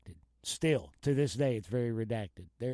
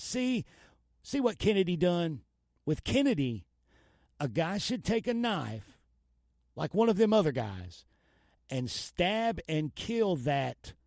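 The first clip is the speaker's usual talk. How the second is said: half-acted outburst, pitch jumping up; heated reading; 4 semitones higher than usual. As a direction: read it like a gangster getting worked up. Reading a heated wiretap quote.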